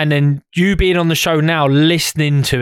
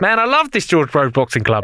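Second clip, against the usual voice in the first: put-on Australian accent; 2 semitones higher than usual. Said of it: "Why are you doing Australian accent".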